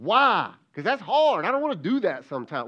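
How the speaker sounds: high, loud mock kid complaint; whiny kid. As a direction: play the reluctant kid who whines back. Preacher voices a complaining kid.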